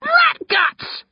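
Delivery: very high howl of delight; gleeful howl. A narrator's reading. Brother revealing his prank to his sister, howling. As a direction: howl it, helpless with glee. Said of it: "I howl".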